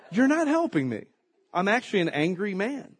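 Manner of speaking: laughing. Real, not acted.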